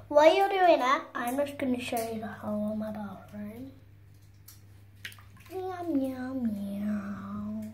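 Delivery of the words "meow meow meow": cat meow. Pretend. Child meowing as cat.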